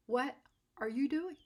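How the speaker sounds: disbelieving laugh. Retold or imitated. Artist scolds him, laughing.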